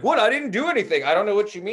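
put-on high, loud protest as an upset kid; mock a kid loudly protesting innocence; imitated freak-out. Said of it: "he freaks out".

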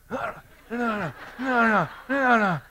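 high, loud imitation of an enraged child; angry kid yelling. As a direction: shout it up high like a furious little boy. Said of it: "he goes".

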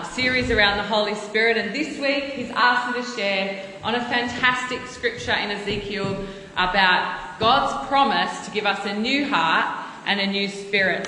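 usual speaking voice

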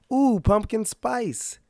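drawn-out, high, swooning "ooh"; mock gushing customer. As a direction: gush slowly like a trendy coffee fan. Mimicking trend-following Starbucks customers.

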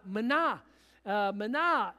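easy, familiar herding call; shepherd calling out. Retold or imitated. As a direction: call the sheep like a practised shepherd. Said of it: "the shepherd would yell out".

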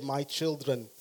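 lightly put-on Afrikaans accent. Farmer speaking to young adults, Afrikaans accent. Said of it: "this is my Afrikaans accent, by the way".

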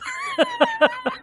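a quick high laugh. Real, not acted. Preacher laughing at his own joke with the congregation, high laugh.

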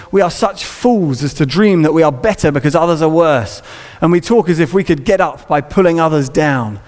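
lightly voiced Victorian preacher, measured; Charles Spurgeon. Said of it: "a nineteenth century Spurgeon voice".

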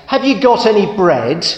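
a cheeky duck asking again and again; pestering duck. Acted.

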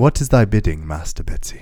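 hushed, bowing servant; whispery Jedi voice. Shown as a demonstration. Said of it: "Jedi and, like, whispery".

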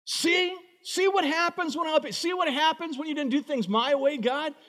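a hurt believer complaining to God; aggrieved prayer to God. Retold or imitated. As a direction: play a wronged believer scolding God. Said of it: "you're going".

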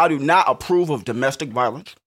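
deep firm announcement; serious voice. Shown as a demonstration. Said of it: "that's my serious voice".

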